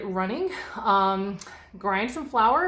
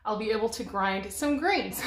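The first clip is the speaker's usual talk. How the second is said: out of breath. Real, not acted. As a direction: talk while winded from squatting. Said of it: "I know I sound out of breath".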